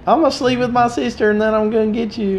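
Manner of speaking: lightly voiced high redneck; mock hick. Joking about American movie heroes, mock hick. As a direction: sneer it like a dumb hick. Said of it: "mocking an American hick".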